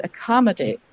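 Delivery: "accommodate" with the weight on COM; stress on COM. Shown as a demonstration. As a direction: say uh-COM-uh-date for "accommodate", natural and connected. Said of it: "we're actually stressing the com".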